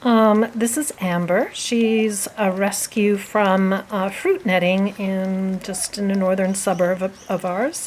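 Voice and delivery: talking through a face mask; mask-muffled speech. Real, not acted. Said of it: "Kat and I are both wearing masks".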